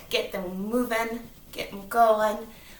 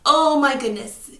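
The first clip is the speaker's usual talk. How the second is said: surprised; 3 semitones higher, 9 dB louder than usual. Pretend. Dramatic storytelling surprise.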